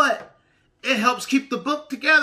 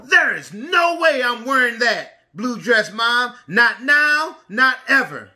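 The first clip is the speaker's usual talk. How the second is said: yelling; 4 dB louder, slower than usual. Acted. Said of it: "Missy yelled".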